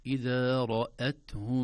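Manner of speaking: إذا رأتهم slow and drawn out; recitation. Shown as a demonstration. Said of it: "reciting the verse".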